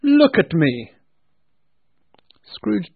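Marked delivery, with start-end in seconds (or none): 0.0-0.9 loud commanding spirit; booming ghost voice. A narrator's reading. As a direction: order him like a giant ghost. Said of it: "said the spirit".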